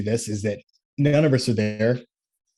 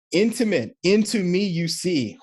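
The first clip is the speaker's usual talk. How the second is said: intimate split as into me you see, slow and raised; wordplay; 6 semitones higher than usual. Shown as a demonstration. Coach unpacks intimacy for the men, slow and emphatic. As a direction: spell out the pun slowly. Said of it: "this is so hard for men".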